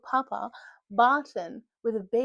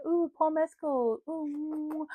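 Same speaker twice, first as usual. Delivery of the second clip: higher, slow cooing "ooh"; mock fangirl swoon; 6 semitones higher, much slower than usual. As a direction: coo over a crush, hammed up. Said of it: "I'm gonna be like".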